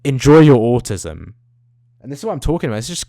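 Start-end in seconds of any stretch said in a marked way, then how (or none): 0.0-1.3 girl's taunt, retold. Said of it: "she was like".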